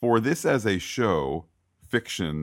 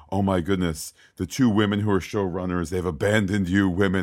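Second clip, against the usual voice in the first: mock outrage; 3 dB louder than usual. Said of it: "I'm not saying".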